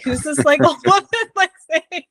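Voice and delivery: high-pitched, laughing imitation of puzzled onlookers; giggly, incredulous mimicry; amused mock disbelief. Mocking imagined onlookers at the park.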